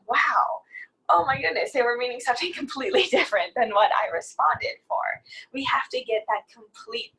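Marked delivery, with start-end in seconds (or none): 0.1-5.0 lightly acted surprise, raised pitch on the wow; mock realization. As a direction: play a sudden realization, half laughing. Imagined reader's realization after finishing book.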